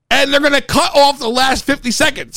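usual speaking voice

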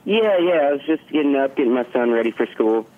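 caller heard over a phone; talking down a phone line. Real, not acted. Guest calling in by phone.

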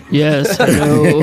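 low, slow seductive hello; sexy phone voice. Retold or imitated. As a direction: purr it like flirting on the phone. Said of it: "He's got a sexy voice".

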